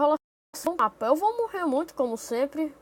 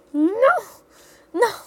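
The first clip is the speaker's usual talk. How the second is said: loud, high cries of no; dismayed shout; 8 semitones higher, 7 dB louder, slower than usual. Real, not acted. Nearly dies in game.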